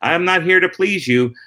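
self-assured attitude. Acted. Comic to a TV audience on debut, relaxed confidence. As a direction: hold your ground with the crowd, lightly acted. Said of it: "the attitude".

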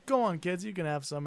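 lightly voiced British grandpa; British old man. British grandpa offering kids caramel, lightly put-on British accent. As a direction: offer it like an elderly Brit. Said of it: "I'll revert back to my British".

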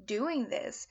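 mildly exasperated retelling of a complaint; frustrated prophet. Retold or imitated. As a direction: drag out the opening question, then let the grievances spill out. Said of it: "he is just so frustrated because he's like".

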